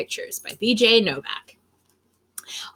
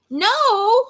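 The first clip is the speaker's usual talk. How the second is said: firm no; 9 semitones higher, 4 dB louder than usual. Pretend. Book answers back.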